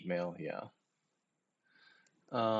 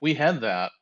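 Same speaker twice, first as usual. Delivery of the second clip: firm, louder take on had; emphatic; 2 semitones higher, 7 dB louder than usual. Shown as a demonstration. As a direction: stress had, full voice. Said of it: "repeats it softer".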